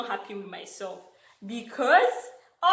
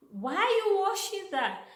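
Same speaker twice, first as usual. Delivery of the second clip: Diane imitated; 9 semitones higher than usual. Diane's voice in retold story.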